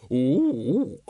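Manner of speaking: wordless animal "ook" of agreement; librarian's hoot. Acted. Librarian confirms the book's title, hooting. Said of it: "confirmed the librarian".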